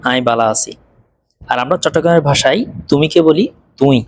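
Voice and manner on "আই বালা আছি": আই বালা আছি in Chittagonian, বালা with unaspirated b; চাটগাঁইয়া উচ্চারণে; Chittagonian dialect. Shown as a demonstration. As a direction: say it the Chittagong way, "ai bala si". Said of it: "এটার চট্টগ্রামের version হলো".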